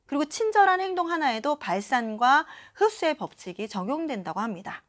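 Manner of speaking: usual speaking voice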